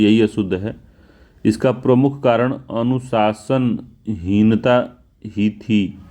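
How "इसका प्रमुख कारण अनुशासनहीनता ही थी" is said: slow dictation. Shown as a demonstration. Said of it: "था नहीं थी".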